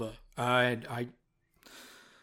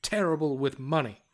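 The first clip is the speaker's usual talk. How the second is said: read diary in the bard's voice. Acted. GM reading the bard's diary entry about Frank, mild character voice. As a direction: gloat through it like the scheming bard. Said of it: "Let's read the passage".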